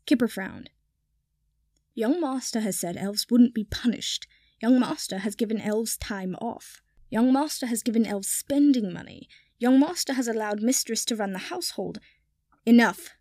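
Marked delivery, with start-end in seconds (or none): 1.9-12.0 a hint of a reproachful elf; lightly voiced servant elf complaining; grumbling house elf. 12.6-13.1 loud angry snap; snapping. Acted. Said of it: "Draco snapped".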